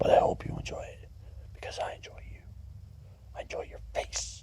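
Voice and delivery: very quiet, soft, hushed half whisper. Speaking to the viewers of a video, in a soft half whisper. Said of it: "soft tone voice with a half whisper behind it".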